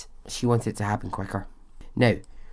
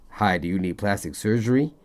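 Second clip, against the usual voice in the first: put-on terrible TV-ad accent. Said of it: "So that was a terrible accent".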